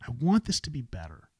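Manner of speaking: a hint of a disheartened sigh; sighing disappointment. Shown as a demonstration. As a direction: breathe it out, let down. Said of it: "that sigh".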